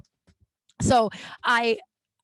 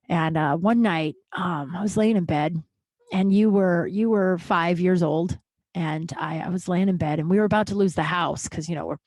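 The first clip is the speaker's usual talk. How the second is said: dead serious; 3 semitones lower than usual. Retold or imitated. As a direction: imitate dad confessing, grave and unhurried. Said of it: "he was so serious".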